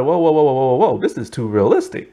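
laughing disbelief. Retold or imitated. Reacting to realistic plot.

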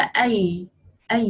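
A as an open vowel, nothing after it; A with no ending sound. Shown as a demonstration. Teacher contrasting three words for a pupil, A with no ending sound. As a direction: say A with no final consonant. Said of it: "A, không có ending sound đúng không?".

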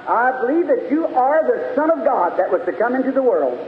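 preaching. Acted. Preacher telling of the woman confessing to Jesus, preaching. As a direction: build the retold confession for the congregation.

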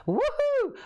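loud high whoop of delight; woohoo. Real, not acted. Crafter cheering after deciding on her cards. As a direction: whoop it out, thrilled.

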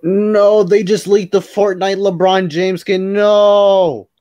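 high, loud wail of protest; dismayed outcry. Real, not acted. Friend reacting to a leaked LeBron skin, dismayed outcry. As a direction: cry out in disbelief, drawing out the no.

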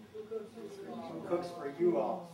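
very slow, drawn-out hooting owl voice; stretched owl-call who cooks for you all; barred owl hoot. Shown as a demonstration. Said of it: "And the mnemonic for that is?".

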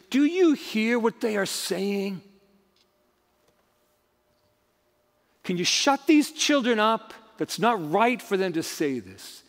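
mildly indignant retold objection; measured, lightly acted indignation. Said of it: "these religious leaders were indignant".

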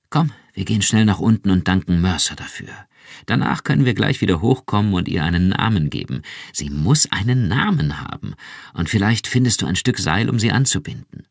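schnell und lauter, voller Eifer; drängend vor Freude; aufgeregt. Acted. (Ehefrau drängt ihren Mann aufgeregt nach unten)

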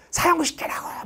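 high shouted demand; furious demand. Retold or imitated. Prisoners demand execution in court uproar, shout. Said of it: "막 이게 난리가 납니다".

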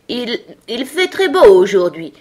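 hesitant, high, nervous opening; timid. A narrator's reading. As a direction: stammer out shy small talk. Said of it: "murmura une voix timide".

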